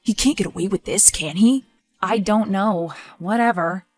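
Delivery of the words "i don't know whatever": softer, defeated shrug; resigned. Acted. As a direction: give up in the voice. Why do you sound so resigned?.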